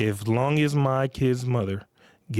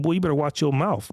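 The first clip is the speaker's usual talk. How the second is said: stern father; 3 semitones higher than usual. Retold or imitated. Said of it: "I said".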